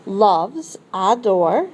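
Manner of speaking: adore said in French; French word. Shown as a demonstration. Teacher modelling adore for the class in French. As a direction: say adore the French way, stress on the end. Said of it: "we're gonna say she".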